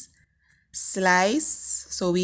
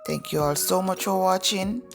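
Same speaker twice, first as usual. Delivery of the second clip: groggy morning voice, just woke up; rough, sleepy morning voice. Real, not acted. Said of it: "please excuse my morning voice".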